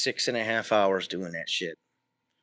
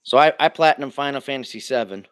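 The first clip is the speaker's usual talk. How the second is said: shaking. Real, not acted. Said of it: "Sorry, I'm shaking".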